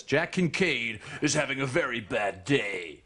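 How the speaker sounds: slow, gritty trailer narration; movie trailer voice. Shown as a demonstration. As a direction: deliver it like a blockbuster trailer. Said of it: "Now listen to this".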